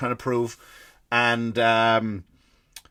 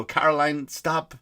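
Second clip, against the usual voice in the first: curt husband; 2 semitones higher than usual. Retold or imitated. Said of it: "the guy's just a dick, and he'll get short".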